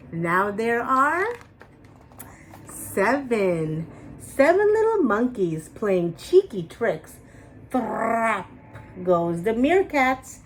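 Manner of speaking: lively picture-book read-aloud with suspense pauses; animated children's story narration with dramatic pauses before each number. A narrator's reading. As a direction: read it like story time for little kids.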